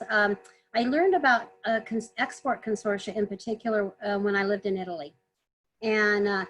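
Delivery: slightly hoarse, voice giving out. Real, not acted. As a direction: talk through a hoarse, tired throat. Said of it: "sorry, losing my voice".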